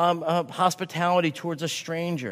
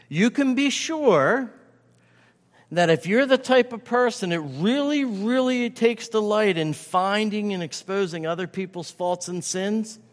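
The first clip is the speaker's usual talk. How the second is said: raised, slowed plea; 5 semitones higher than usual. Acted. Preacher pleading with congregation.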